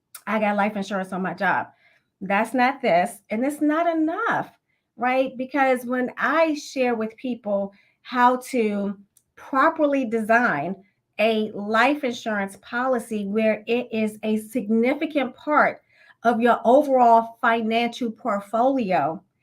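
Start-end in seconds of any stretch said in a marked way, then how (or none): 5.3-19.1 slow, measured, deliberate word-by-word emphasis. Talking to listeners so that everyone gets it, speak slow and deliberate. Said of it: "I said that slowly".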